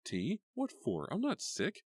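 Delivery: high, indignant refusal; irritated. A narrator's reading. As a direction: brush off the tea offer. Karen irritably refusing tea.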